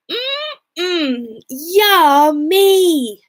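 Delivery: high, greedy mm-yummy; delighted children. Acted. The hungry siblings spotting the gingerbread house, delighted. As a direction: savour the word like a treat.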